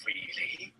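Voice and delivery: breathy whispered question. Acted. Vampire boy whispering his surprise to the narrator. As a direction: hush it like a secret. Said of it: "he whispered".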